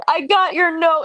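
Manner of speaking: lightly acted tearfulness; tearful retelling. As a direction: imitate someone starting to cry. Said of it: "they start crying".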